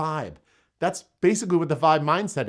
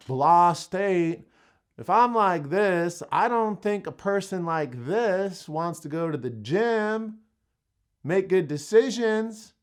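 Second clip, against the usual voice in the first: Southern accent; slower than usual. Shown as a demonstration. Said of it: "my accent went a little south there".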